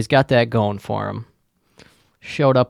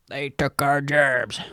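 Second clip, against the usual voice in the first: a slow, quieter hint of the South Park redneck cry; 6 dB quieter, slower than usual. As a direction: lightly mimic the South Park yokel complaint. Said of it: "shout out South Park".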